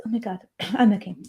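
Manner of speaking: hoarse and croaky; scratchy throat, clearing it. Real, not acted. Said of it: "I got a croaky voice".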